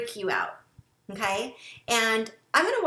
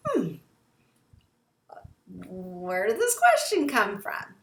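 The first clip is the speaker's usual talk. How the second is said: suspicious tone. Shown as a demonstration. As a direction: let the suspicion show in the voice. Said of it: "Does your tone or your pitch of your voice change".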